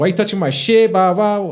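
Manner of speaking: imitating a mad older brother; mock angry big brother. Scene: older brother snapping at little brothers for touching his things. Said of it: "I'd get mad at them".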